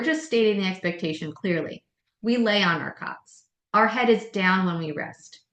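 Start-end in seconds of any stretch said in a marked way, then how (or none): 2.2-5.4 level, firm and clear, not yelling; matter-of-fact teacher voice setting the rule; firm even tone. Shown as a demonstration. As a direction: state the rule calmly but firmly. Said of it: "That's an even tone. I'm not yelling".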